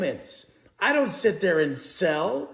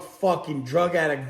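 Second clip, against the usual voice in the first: ordinary talk, nothing marked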